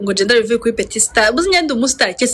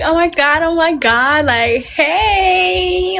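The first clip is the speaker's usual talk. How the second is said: high excited oh my God; hyping herself before the crowd does, high excited squeal; hyped squeal; 7 semitones higher, much slower than usual. Retold or imitated. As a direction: hype yourself up, squealing. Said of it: "I'm like".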